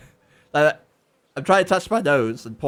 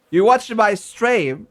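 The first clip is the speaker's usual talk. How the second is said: mock Cockney; 4 semitones higher, 4 dB louder, slower than usual. Shown as a demonstration. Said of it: "Is that how Cockney works?".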